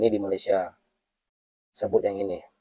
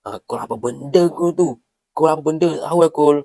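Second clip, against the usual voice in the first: higher, louder puzzled shopkeeper; 5 semitones higher, 3 dB louder than usual. Acted. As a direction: snap back as a confused shopkeeper. Shopkeeper confused retort.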